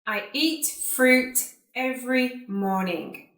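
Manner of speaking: careful, spaced-out words with pauses between phrases; repeat-after-me model. Shown as a demonstration. Teacher saying sentences for students to repeat, carefully enunciated. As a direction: enunciate each word for learners to copy. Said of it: "like you to repeat after me".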